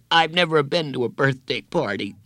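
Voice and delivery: blubbering. A narrator's reading. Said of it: "he blubbered".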